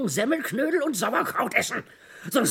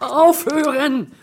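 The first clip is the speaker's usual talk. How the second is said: loud, slow yell; an exasperated shouted stop; 4 semitones higher, 8 dB louder, much slower than usual. Acted. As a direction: bellow it out to stop them. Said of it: "schreien Sie nicht so".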